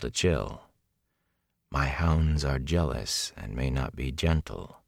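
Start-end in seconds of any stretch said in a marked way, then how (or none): 1.7-4.8 low, slow veiled threat; unhurried, lowered menace; coolly menacing villainess. Acted. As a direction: let the threat fall slowly.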